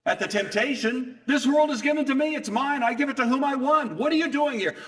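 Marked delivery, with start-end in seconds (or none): 1.3-4.7 high, loud, fast, arrogant devil voice; the devil boasting that he owns the world; possessive devil. Retold or imitated. Devil tempting Jesus in the wilderness, loud and arrogant.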